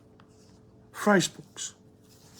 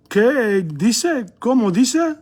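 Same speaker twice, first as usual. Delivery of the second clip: puzzled what; 5 semitones higher, slower than usual. Shown as a demonstration. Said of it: "modelling a puzzled question".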